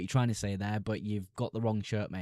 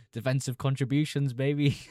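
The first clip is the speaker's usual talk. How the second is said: gleeful; 4 semitones higher, 5 dB louder than usual. Real, not acted. Gleeful reply after laughing.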